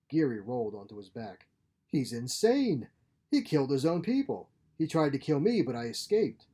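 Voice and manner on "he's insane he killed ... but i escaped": loud, breathless act of panic; frantic accusation. Acted. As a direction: sell the terror to the police. Geary's act for police.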